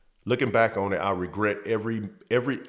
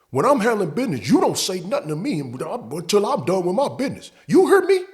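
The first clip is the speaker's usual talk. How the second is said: high, louder falsetto telling-off; much higher put-on voice of the scolding buddy; mocking scolding coworker; 10 semitones higher, 6 dB louder than usual. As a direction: lecture him in a high squeaky voice. Coworker scolding him in truck.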